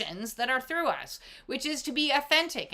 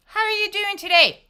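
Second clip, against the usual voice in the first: cheery friend; 9 semitones higher, 7 dB louder than usual. Acted. Acted check-in, asked again.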